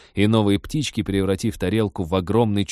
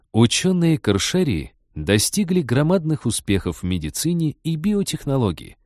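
higher, eager and delighted; overjoyed host; 5 semitones higher than usual. Acted. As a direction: beam with delight at the tourists. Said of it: "неимоверно обрадовался".

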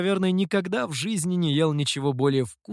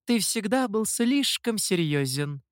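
higher-pitched, mildly scornful huff; huffy; 5 semitones higher than usual. A narrator's reading. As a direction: toss it off with a touch of scorn. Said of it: "фыркнула Хэйли". (фыркая, высоким голосом)

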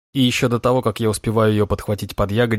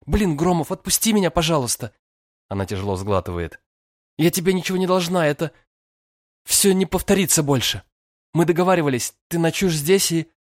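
flustered; 8 semitones higher, 4 dB louder than usual. A narrator's reading. Flustered girl fending him off.

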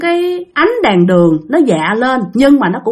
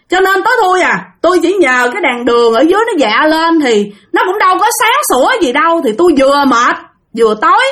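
exasperated defence; 6 semitones higher than usual. Retold or imitated. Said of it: "các bạn nói".

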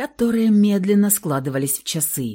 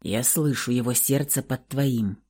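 hoarse rasp; 6 semitones lower, 5 dB quieter than usual. A narrator's reading. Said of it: "прохрипел древний вамп".

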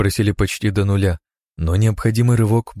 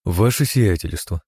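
soft and calm; slower than usual. Acted. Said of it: "мягко и с необычайным спокойствием".

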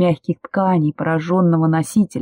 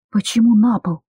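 higher, genuinely baffled; puzzled question; 5 semitones higher than usual. Acted. Woman asks Demyan why they should hide on the floor, puzzled. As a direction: ask it in disbelief. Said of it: "недоуменно спросила я".

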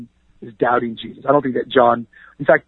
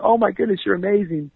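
mock cheering crowd; 7 semitones higher than usual. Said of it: "they're shouting, going".

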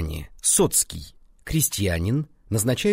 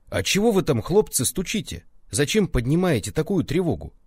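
puzzled; 7 semitones higher than usual. A narrator's reading. Roused man asks.

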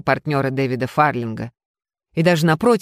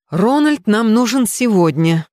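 curt; 6 semitones higher, 4 dB louder than usual. A narrator's reading. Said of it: "коротко ответила мисс Уитерс".

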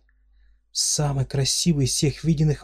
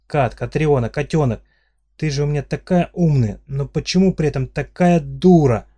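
exasperated scolding; 3 semitones higher, 6 dB louder than usual. Acted.

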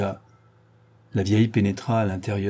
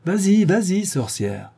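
very amused; 10 semitones higher than usual. A narrator's reading. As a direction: tease the old witch gleefully. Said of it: "très amusé". (moqueur et très amusé)

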